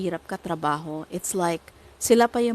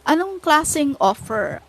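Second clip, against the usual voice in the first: heated rant; 8 semitones higher, 5 dB louder than usual. Real, not acted. Ranting about a demanding client.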